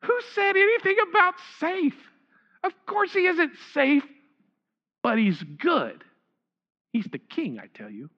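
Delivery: lightly voiced beaver, settling down to a hush; Mister Beaver. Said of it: "said Mister Beaver".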